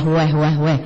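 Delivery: low mooing wah wah wah; cow moo. Retold or imitated. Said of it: "Sapi ... krungun meng". (sapi melenguh rendah)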